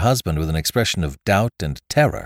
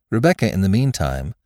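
ordinary delivery

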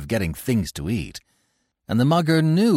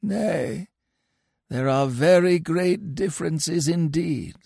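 gently; 8 semitones higher, slower than usual. A narrator's reading. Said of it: "answered gently".

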